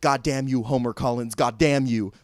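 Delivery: imitating wooden acting, forceful but uninflected; mock deadpan stage scolding; no inflection. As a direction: recite the curse like a bad actor. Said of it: "literally no inflection whatsoever".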